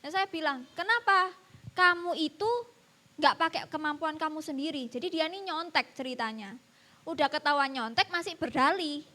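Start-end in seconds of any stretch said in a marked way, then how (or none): 0.7-4.9 firm, mildly angry questioning; retold angry scolding. Teacher confronts pupil over copying, retold angry scolding. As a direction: retell a stern scolding, pressing the opening words. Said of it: "saya marah besar".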